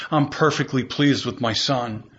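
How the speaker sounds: low, gently reassuring voice; understated fatherly tenderness; loving, as God. Acted. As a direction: speak God's approval tenderly and low. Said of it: "And God lovingly says".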